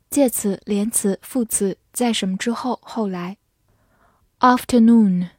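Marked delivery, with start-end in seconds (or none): 4.4-5.3 "Afternoon" in a British accent, long AH, no R; British pronunciation. Shown as a demonstration. Teacher models a review word for learners, British accent. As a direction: say "Afternoon" the British way, opening with AHF. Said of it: "美式发音afternoon".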